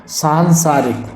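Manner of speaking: सांसारिक slow, long सां and सा; drawn-out सांसारिक; सही उच्चारण. Shown as a demonstration. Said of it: "संसरिक नहीं होगा". (सांसारिक धीरे और लंबे स्वर के साथ)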